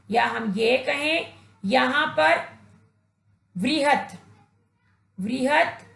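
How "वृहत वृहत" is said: वृहत said slowly as व्रिहत, with री after व; व्रिहत, said with care, twice; correct pronunciation. Shown as a demonstration. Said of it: "उचित उच्चारण होगा". (शुद्ध उच्चारण: वृहत, धीरे-धीरे)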